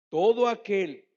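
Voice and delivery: exclamación fuerte. Real, not acted. Preacher calls out to congregation.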